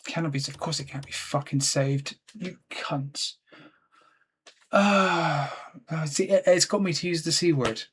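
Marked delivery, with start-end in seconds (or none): 4.7-5.5 drawn-out fed-up groan; exasperated groan. Real, not acted. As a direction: groan after swearing at the game. Giving up, cannot save.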